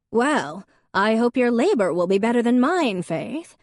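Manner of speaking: put-on high, loud grand old lady; a grandmother holding court; said grandly. A narrator's reading. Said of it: "their grandmother said grandly".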